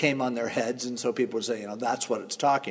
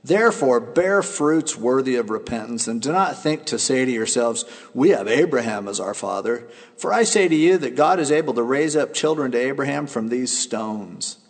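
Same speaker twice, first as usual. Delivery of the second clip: booming prophet denouncing hypocrites; stern rebuke; 3 dB louder than usual. Acted. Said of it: "he said".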